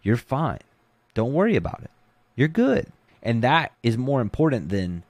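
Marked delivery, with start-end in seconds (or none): 0.0-2.9 calm coaching. Retold or imitated. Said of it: "when you start freaking out".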